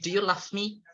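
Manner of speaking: rising question with "love" as "laff"; mispronunciation. Shown as a demonstration. Teacher asking if it is correct, "love" mispronounced as "laugh". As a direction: say "love" with f in place of v. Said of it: "Is it correct pronunciation?".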